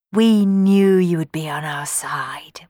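hushed whisper; child whispering gratefully to the kind maid. Acted. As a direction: whisper it so no one overhears. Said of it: "whispered Johnny".

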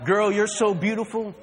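put-on low, slurry drunk pickup lines; sleazy drunk hitting on a girl.

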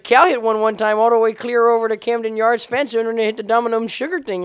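high, hammed-up Baltimore local voice; imitated Baltimore accent. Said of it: "What kind of voice are you doing?".

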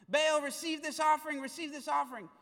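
loud pleading call to an idol; a loud mock prayer; crying out to Baal.

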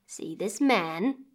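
put-on slow old woman. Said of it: "she said".

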